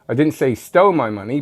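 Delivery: STOLE lifted with a rise; stress on STOLE. Shown as a demonstration. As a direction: lean on stole, maybe borrowed. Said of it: "but they could have borrowed it".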